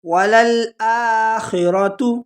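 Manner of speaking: وللآخرۃ slowly, passing quickly over خ; quick kha. Shown as a demonstration. Teacher showing students to say it quickly. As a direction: keep the خ of وللآخرۃ short. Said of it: "جلدی سے پڑھیں گے وللآخرۃ".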